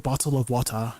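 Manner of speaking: British accent, "Bottle of water" with every T and the "of" sounded; British accent, everything kept. Shown as a demonstration. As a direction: enunciate "Bottle of water" fully in British style, final R dropped. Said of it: "British accents where you just keep everything".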